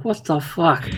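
a lightly voiced dragon caught off guard; startled dragon. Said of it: "I don't wanna say he shrieks".

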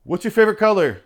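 shrill, loud, high hounding reporter; high, loud mock paparazzo calling after a star; eager reporter. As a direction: yap it out like a pushy tabloid reporter. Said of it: "being like".

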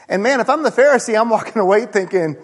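ordinary delivery

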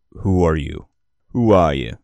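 put-on "Who are you?" in a light Midwestern accent; a hint of the Midwest in Nova's challenge; vaguely Midwestern accent. Nova confronting the strangers, lightly Midwestern. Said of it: "he says that in a vaguely, uh, Midwestern accent".

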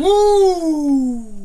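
high, loud cheer; excited woo. Real, not acted. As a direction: cheer it out like a fan. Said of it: "Can I get another one of those?".

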